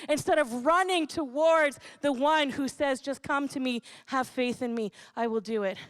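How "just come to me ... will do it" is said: gentle invitation. Pretend. Voicing God's gentle invitation.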